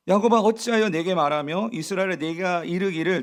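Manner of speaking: measured, proclaiming scripture reading. Acted. Preacher reading the prophet's rebuke to the congregation, proclaiming. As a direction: declaim the Bible verse.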